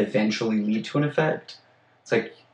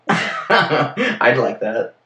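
laughing; 2 semitones higher, much slower than usual. Real, not acted. Laughing reply.

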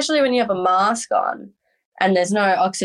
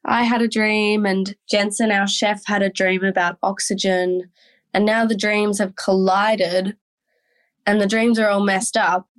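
airy voice. Retold or imitated. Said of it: "she's doing it in this very airy voice".

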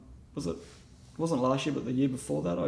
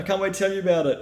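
fast, high, eager retelling; hammed-up eager gush; acted excitement; 7 semitones higher, 3 dB louder, faster than usual. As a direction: rush it out, bursting to share the news. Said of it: "I'm so excited".

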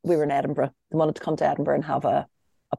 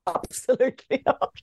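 prim parent refusal; 6 semitones higher than usual. Retold or imitated. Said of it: "just like".

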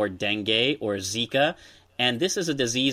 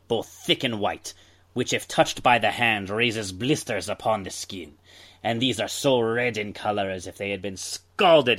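lightly voiced old-timey pirate; 2 semitones lower than usual. Shown as a demonstration. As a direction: read it like a salty old sailor. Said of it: "I should do this in, like, an old-timey voice".

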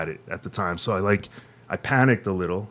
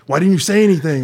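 much higher and louder, exasperated demand; 8 semitones higher, 8 dB louder than usual. Retold or imitated. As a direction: throw the question back hard. Boss Rick scolding.

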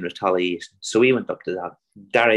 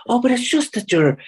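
put-on much higher, louder old lady voice; mock old woman; 14 semitones higher, 5 dB louder than usual. Old landlady awkwardly sizing him up, high mock voice. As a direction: squeak it out like a flustered old dear.

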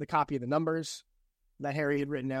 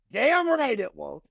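laughing; 7 semitones higher, 6 dB louder than usual. Real, not acted. Laughing agreement.

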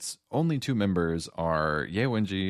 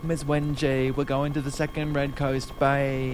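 higher, louder mock British accent with a laugh; a guide on a helicopter, laughing through a put-on British accent; imagined British voice; 6 semitones higher, 3 dB louder than usual. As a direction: play the young escort in a hammed-up British accent. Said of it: "that's what he sounds like".

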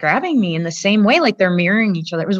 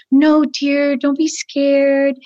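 slow, higher, sugary put-on voice for the scary hostess; fake soothing lady; 3 semitones higher, much slower than usual. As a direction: coo it slowly, a false comfort. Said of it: "And Ghislaine's going".

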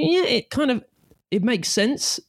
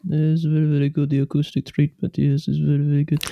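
a hint of a posh old gent. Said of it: "I was doing posh voice rather than Russian voice".

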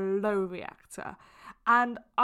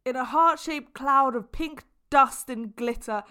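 gushing over-the-top love; 3 semitones higher, 4 dB louder than usual. Retold or imitated. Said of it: "I was like".

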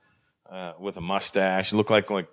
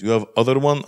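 mock Arab accent; 3 semitones higher, 4 dB louder than usual. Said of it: "stereotypical Arab-looking guy".

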